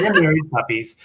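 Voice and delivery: laughing through the words; giggling while saying it. Real, not acted. Laughing at own joke.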